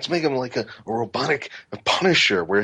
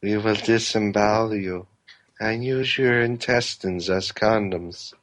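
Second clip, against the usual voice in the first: creepy voice. Acted. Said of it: "Creepy creeper".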